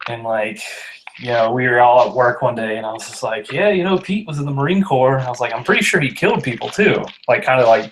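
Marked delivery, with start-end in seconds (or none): 3.5-7.0 sarcastic. Retold or imitated. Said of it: "being sarcastic".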